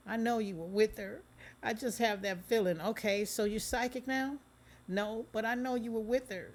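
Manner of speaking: high, loud tearful insistence; crying plea. Acted. Megan pleading with Cheetah through tears. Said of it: "She starts crying".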